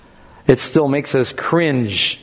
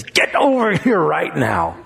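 put-on drawn-out teasing call to a child; mother coaxing her child over, slow and teasing; slow, playful call; slower than usual. Shown as a demonstration. Mother calling her child, slow and playful. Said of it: "a whole different response than if she says".

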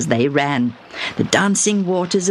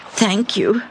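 brave thank you; 5 semitones higher than usual. Acted.

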